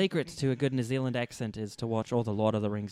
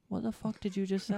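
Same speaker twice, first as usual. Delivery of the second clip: friends' disbelief; 7 semitones higher, 4 dB quieter than usual. Acted. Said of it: "they're all looking at him like".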